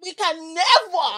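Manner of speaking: slow, loud, high mock Caribbean; drawn-out hammy Caribbean line; Caribbean accent. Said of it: "That was a terrible Caribbean accent".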